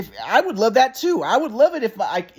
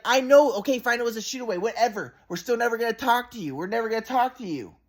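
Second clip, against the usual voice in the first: higher, softer mock-mother voice; dismissive mom imitation; 4 semitones higher, 3 dB quieter than usual. Son mimicking mom conceding dismissively, high and offhand. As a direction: brush it off in a pitched-up voice. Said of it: "later she would be like".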